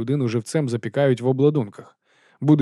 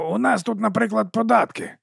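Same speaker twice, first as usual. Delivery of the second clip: higher, eager huckster voice; chummy sausage seller greeting the watch; fast-talking street vendor; 10 semitones higher than usual. Acted. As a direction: sell it with a grin you can hear. Narrator voices Dibbler.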